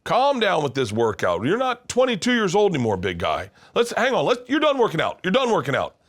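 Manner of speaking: high, loud, exaggerated worried dad; imitating dad. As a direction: squeal at your son to stop working out. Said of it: "he'd be like".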